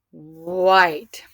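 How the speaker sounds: WHITE drawn out, leaning on the opening wh; opening sound emphasized. Shown as a demonstration. Teacher helping class hear the digraph, WHITE with emphasized wh. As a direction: say WHITE loudly, stretching the wh glide. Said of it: "Oh, you hear that?".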